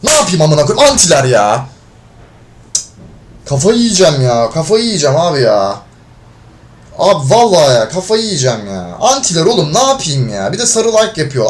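fed-up player ranting to viewers; angry rant. Real, not acted. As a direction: vent at the screen in fury. Ranting after losing the match.

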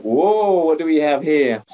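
high, bright-eyed mock surprise. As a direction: fake a big whoa for the class. Teacher reveals object with surprise.

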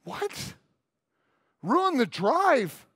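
a whispered "What?", then a slow, disbelieving "Ruin the drive?"; incredulous kid. Retold or imitated. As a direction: repeat "Ruin the drive?" slowly, as if it makes no sense. Kid incredulous at uncle's excuse.

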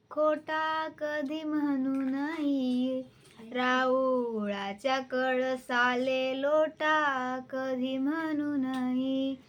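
measured, sing-song recitation of a folk poem. Acted. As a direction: recite each line with a lilting rise. (कविता गायन शैलीत, लयबद्ध)

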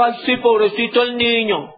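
high, fond, pitying father; doting father. Retold or imitated. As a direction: coo over the poor boy. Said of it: "el David dijo".

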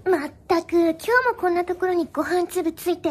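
世話焼きヒロインを軽く演じて; 呆れつつ可愛く世話を焼く芝居; 世話焼きキャラ. Acted. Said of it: "lovely先輩". (世話焼きな女の子風)

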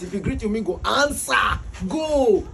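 usual speaking voice

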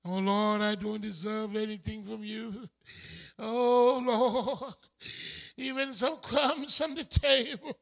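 a hint of pitiful pleading; mock begging prayer. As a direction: imitate a whiny beggar to God. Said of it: "like you're begging".

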